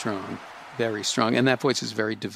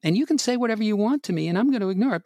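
higher, standing up to a bully; talking back to worry; 6 semitones higher than usual. Acted. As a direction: push back at Worry, growing firmer. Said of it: "I want you to be yourself".

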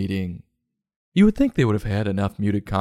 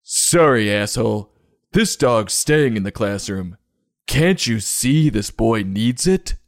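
mock angry retort; 3 dB louder than usual. Acted quarrel over the dog.

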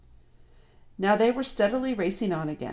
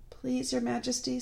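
higher-pitched, meek plea; deferential fox; 7 semitones higher, 3 dB quieter than usual. A narrator's reading. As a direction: plead humbly to a queen. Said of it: "said the fox".

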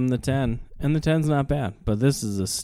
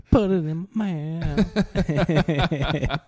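very slow, cracking up through the words; laughing; 7 semitones higher, much slower than usual. Real, not acted. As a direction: repeat the line while laughing. Repeats the joke, laughing.

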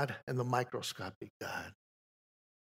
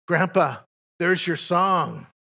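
put-on child's voice; 4 semitones higher, 6 dB louder, slower than usual. Granddaughter quoted in story.

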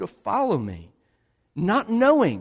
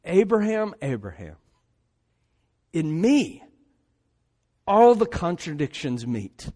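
tender divine voice. Acted. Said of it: "what God is showing Abraham".

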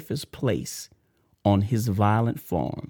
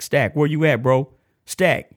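raised, higher call to a friend; 4 semitones higher, 4 dB louder than usual. Real, not acted. Host shouting out to Stack on the unit, calling out. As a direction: call out to find your buddy.

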